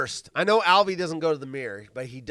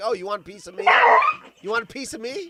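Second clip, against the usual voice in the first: mock taunting animal voice, higher and louder; 7 semitones higher, 4 dB louder than usual. Voicing the animal's thoughts in a video: mock taunt. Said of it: "He's like".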